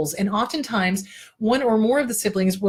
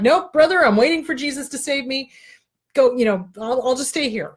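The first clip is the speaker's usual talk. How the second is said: 1 stubborn flood guy; 4 semitones higher than usual. Acted. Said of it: "And he's like".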